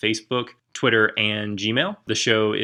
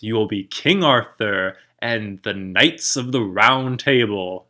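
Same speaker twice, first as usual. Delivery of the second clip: Merlin voice; slower than usual. Retold or imitated. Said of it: "Merlin goes".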